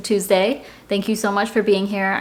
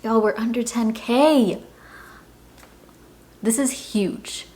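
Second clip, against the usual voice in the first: awed excitement; 4 semitones higher, slower than usual. Real, not acted. Hitting a debt milestone on camera.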